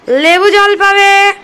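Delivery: high, slow coaxing to toddlers. Real, not acted. Mother coaxing her toddlers with lemon water, high sing-song.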